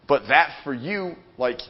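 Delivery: normal talking voice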